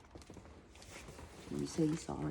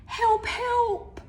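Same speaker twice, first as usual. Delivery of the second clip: much higher, louder howl for help; howling lion; 7 dB louder than usual. Acted. Lion tied to the tree howling loudly for help. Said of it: "howled the lion".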